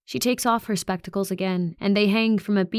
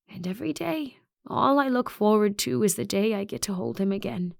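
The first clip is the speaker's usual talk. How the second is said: wistful principal; 2 semitones higher than usual. Acted. Narrator voices Principal Orr.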